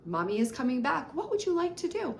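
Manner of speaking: put-on bright, high, simple reassurance to a child; teacher brightly reassuring a child. Shown as a demonstration. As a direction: reassure a little one briefly, voice lifted high. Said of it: "Less is more".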